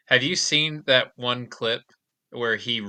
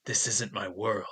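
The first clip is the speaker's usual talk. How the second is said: slow, mock flat line reading; imitating Kevin Sorbo; 6 dB quieter, slower than usual. Friend retelling a TV clip, slow and wooden. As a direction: read it like a wooden actor. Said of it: "he's like".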